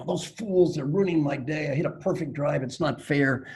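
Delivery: mild mock anger from a cheated golfer; angry golfer. Golfer fuming at the idiots who left a beer can. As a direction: grumble it like a golfer robbed of his shot. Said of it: "Oh, he's really angry now".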